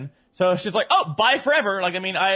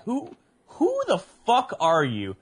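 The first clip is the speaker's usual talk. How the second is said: confused Uber driver; 6 semitones higher, slower than usual. Retold or imitated.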